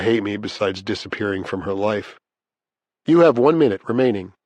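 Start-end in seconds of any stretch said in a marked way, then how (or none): 3.1-4.3 louder recorded phone warning; automated announcement. A narrator's reading.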